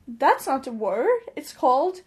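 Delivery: mock patronizing. British person correcting a non-native speaker, mock patronizing. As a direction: imitate someone correcting you condescendingly. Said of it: "slightly patronizing comments such as".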